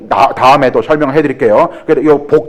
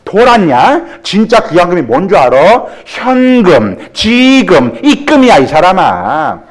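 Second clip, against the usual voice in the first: much higher, sharp scolding wife; 3 semitones higher, slower than usual. Acted. Wife in the joke scolds her husband with the punchline, much higher. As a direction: tell him off like a bossy wife.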